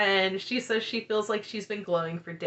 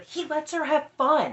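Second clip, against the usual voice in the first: pointed outburst; 7 semitones higher than usual. Retold or imitated. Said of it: "bursts out with".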